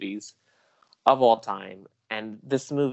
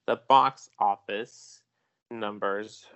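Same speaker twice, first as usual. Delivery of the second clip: slow, measured news reporter delivery; slower than usual. Acted. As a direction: read it like a TV box office report. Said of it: "Let me slip on my reporter voice".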